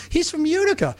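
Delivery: high-pitched, animated exclamation; retold owner's excited voice; imitated restaurant owner. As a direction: announce a hometown connection excitedly. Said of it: "He goes".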